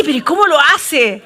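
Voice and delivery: loud, laughing disbelief; acted bafflement. Onlooker wonders how the plain man does it, mock bafflement. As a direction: marvel at it, amused and incredulous. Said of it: "Y tú decís".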